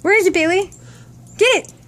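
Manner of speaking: eager high call to the dog; excited calling. Real, not acted. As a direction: urge the dog on.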